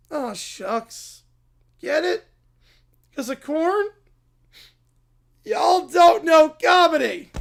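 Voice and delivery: hammed-up catchphrase shout. Applicant shouting his corn joke at the farmer. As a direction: yell the punchline at the farmer.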